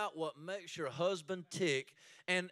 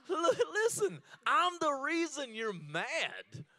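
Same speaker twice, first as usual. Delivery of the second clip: half-laughing mock shout, higher and louder; mock angry shout; 9 semitones higher, 5 dB louder than usual. Husband mock-shouting at his mad wife in a fight. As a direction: bark it out like a fed-up husband mid-fight. Husband acts out heated reply.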